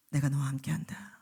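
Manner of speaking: low whispered divine reply; voice of God. Acted. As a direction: answer gently as God. (하나님의 낮은 속삭임)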